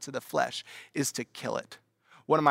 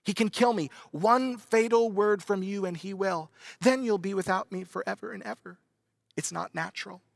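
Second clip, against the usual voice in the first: higher, wheedling small lizard voice; piping lizard; 5 semitones higher than usual. Acted. Lizard pleading with the ghost to spare it, higher wheedling voice. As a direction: coax him like a sly pet lizard. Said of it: "pipes up".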